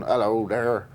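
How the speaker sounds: hearty West Country greeting; broad West Country British country accent. Shown as a demonstration. Pitching a character idea to a colleague, in a West Country accent. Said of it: "kinda West Country accent".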